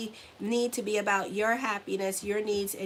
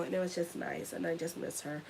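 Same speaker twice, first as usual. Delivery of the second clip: tearful; 3 semitones lower, 7 dB quieter than usual. Real, not acted. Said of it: "I'm gonna cry".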